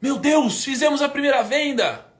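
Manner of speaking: high, loud burst of joy; excited exclaim. Retold or imitated. Announcing the first sale to the team, excited. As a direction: shout it out like you can't believe it. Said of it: "Eu falei".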